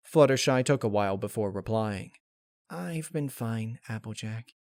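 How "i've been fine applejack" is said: quiet deflection. Acted. Fluttershy deflecting.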